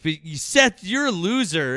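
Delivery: high, loud retold jeer; mock an opponent hurling an insult; Liam. Retells Liam's insult.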